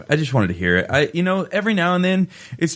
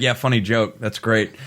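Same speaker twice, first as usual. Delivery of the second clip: sarcastic. Retold or imitated. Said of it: "I'll like".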